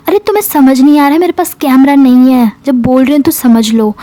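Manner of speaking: mildly exasperated retort, starting quick; frustrated. Retold or imitated. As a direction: insist with a touch of frustration, as if fed up. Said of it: "like एक फ्रस्ट्रेटेडली". (हल्की झुंझलाहट के साथ)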